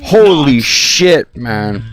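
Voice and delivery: slow drawn-out amazement; slow shocked holy shit; stunned. Real, not acted. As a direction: let it stretch in awe. Shocked reaction again.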